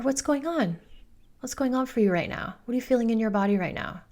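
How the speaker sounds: curious. Retold or imitated. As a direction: ask a child with open, tender interest. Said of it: "It's curious".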